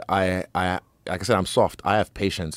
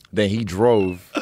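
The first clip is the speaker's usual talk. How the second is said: ordinary talk, nothing marked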